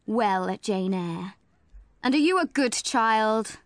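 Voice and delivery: put-on loom over a small child; stern clergyman. Brocklehurst questions Jane.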